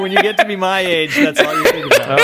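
put-on high, loud laughing old geezer; cackling old man, way up high. Continues old man bit.

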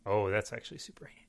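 unvoiced aside whisper. Real, not acted. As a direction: whisper it to your friends. Excited aside.

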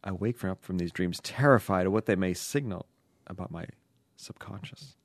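low, soft, fading away; sexy dream voice. Acted. Letter writer troubled by dreams, hushed dreamy voice. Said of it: "your sexy dream voice".

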